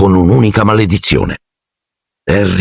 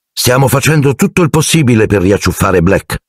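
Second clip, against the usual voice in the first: higher-pitched official statement; lightly voiced minister; 6 semitones higher than usual. A narrator's reading. Minister reassuring the public through the newspaper, lightly voiced.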